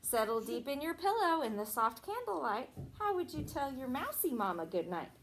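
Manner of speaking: sing-song storybook reading; reading to children. Acted. Teacher reading a Christmas rhyme to a child. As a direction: read the rhyme to the little ones. Teacher reads picture book aloud.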